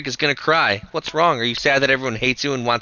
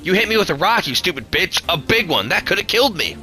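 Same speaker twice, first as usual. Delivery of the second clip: furious yell; 9 semitones higher, 3 dB louder than usual. Acted. Bully screams at old woman.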